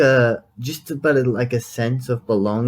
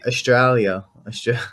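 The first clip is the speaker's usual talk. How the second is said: Australian accent. Shown as a demonstration. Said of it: "I have an Australian accent".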